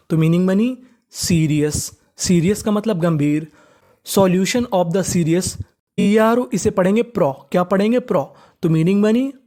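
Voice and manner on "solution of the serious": slow dictation. Shown as a demonstration. Teacher dictating the English sentence.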